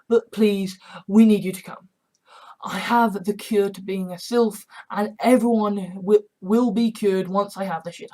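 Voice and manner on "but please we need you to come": loud plea. Acted. Pleading in broadcast.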